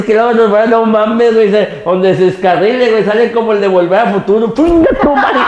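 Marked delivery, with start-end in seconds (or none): 4.5-5.5 high exclamation breaking into laughter; real helpless laughing outburst; cracking up. Real, not acted. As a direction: burst out laughing on the curse. Cracking up at own joke.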